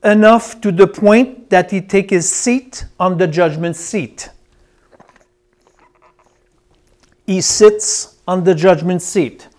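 deliberate teaching, long pauses between phrases; going slow. Real, not acted. Preacher explaining what's going on here for note-takers, going slow. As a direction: let each phrase land before the next. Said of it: "I will go slow now".

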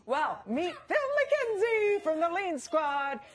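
put-on hammy Italian host accent; slow, showy Italian accent. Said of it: "Your Italian accent sounded like when I do an Italian accent".

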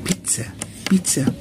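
"بيتزا" with a TS sound in the middle; double Z as TS. Shown as a demonstration. Teacher showing how pizza is pronounced, "بيتزا" with TS for double Z. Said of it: "بننطقها تي اس".

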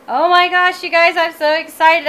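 high, loud rush of delight; real excitement. Real, not acted. Crafter showing viewers her new vinyl colors, excited. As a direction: burst out high and thrilled.

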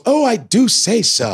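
high, slow pompous colonel; bragging old cartoon colonel; Colonel McBragg voice. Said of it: "And there was Colonel McBragg".

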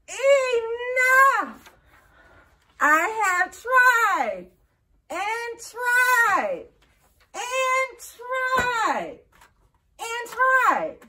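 loud, exasperated cry of giving up; frustrated outburst. Acted. Gerald to Piggie after failing dance moves, loud frustrated outburst. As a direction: Gerald bursts out, fed up with failing.

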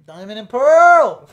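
loud, slow, high cheer; excited shout. Real, not acted. Host cheering at the idea of Diamond and Pearl remakes, excited. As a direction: stretch it out in delight.

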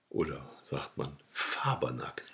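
a quick, playful whisper to herself; whispered aside. Real, not acted. Alone with her phone, a joking whispered aside. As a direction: drop to a secret whisper for the joke.

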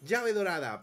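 mock excitement. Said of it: "puedo decir".

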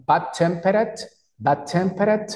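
"Bad tempered" with the final -ed said as a small, light T; -ed como T pequeñita. Shown as a demonstration. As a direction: end "tempered" on a tiny T, not a full "ed". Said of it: "La ed siempre es una T pero pequeñita". ("tempered" con la -ed final como una T pequeñita)

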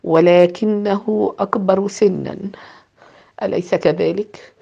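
slow, soft and even; quietly finishing his friend's sentence; calm interruption. Acted. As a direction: cut in gently and calmly. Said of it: "قاطعه في هدوء".

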